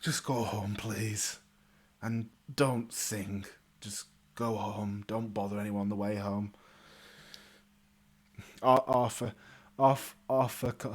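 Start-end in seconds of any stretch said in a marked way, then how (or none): 0.0-6.5 low, soft, resigned order; weary dismissal. Acted. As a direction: send him home, drained and quiet. Knight wearily dismisses his troublesome brother.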